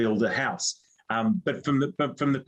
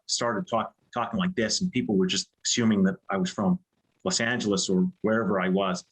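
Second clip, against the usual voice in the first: put-on American accent; 2 semitones lower than usual. Shown as a demonstration. Showing friends a party-trick American accent. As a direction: talk like an American. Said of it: "was doing an American accent".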